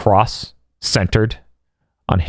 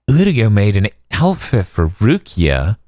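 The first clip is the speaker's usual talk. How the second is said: imitating Orihime; 3 semitones higher, slower than usual.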